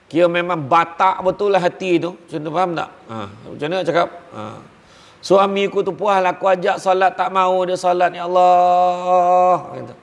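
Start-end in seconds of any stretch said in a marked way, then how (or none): 5.2-9.7 drawn-out, half-weeping plea to God; tearful wife's prayer. Retold or imitated. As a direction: stretch each ya Allah like a mock lament. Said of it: "hari-hari menangis". (doa isteri yang merintih dan menangis, ya Allah dipanjangkan)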